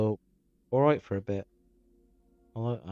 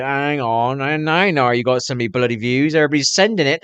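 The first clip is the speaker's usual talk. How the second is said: worked-up retelling; 3 semitones higher, 7 dB louder than usual. Retold or imitated. Retold rising excitement, much louder.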